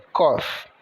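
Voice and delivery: coffee with C as "k", clipped "kóf"; coffee pronounced. Shown as a demonstration. Teacher models coffee for students, "kófi". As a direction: say coffee starting hard "k". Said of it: "O C com o som de K".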